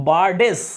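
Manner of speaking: বার্ডেস with its "es" ending sounded; বার্ডেস, the old plural ending fully voiced; Old English plural. Shown as a demonstration. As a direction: say বার্ডেস as two syllables, sounding the e. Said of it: "এইভাবে plural হতো".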